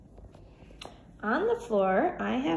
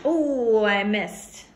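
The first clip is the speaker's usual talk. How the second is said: disappointed exclaim; 7 dB louder, much slower than usual. Real, not acted. Missed the bucket.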